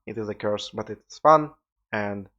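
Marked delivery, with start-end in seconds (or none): 0.7-1.5 excited. Real, not acted. Ironic sign-off about self-improvement.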